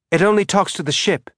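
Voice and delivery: put-on a boy lit up with excitement; bright excited boy. A narrator's reading. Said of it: "his young boy's voice bright with excitement".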